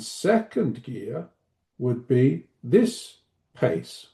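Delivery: very slow, spaced-out teacher delivery; slow right down, pausing between phrases; second gear pace. Shown as a demonstration. Trainer shows teachers a too-slow speaking pace, slow and spaced. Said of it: "That was me demonstrating second gear".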